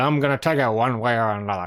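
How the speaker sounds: imitated drunk accent, put-on drunk voice. Retelling a funny scene, doing the man's line with a drunk accent. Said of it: "I say it with a drunk accent".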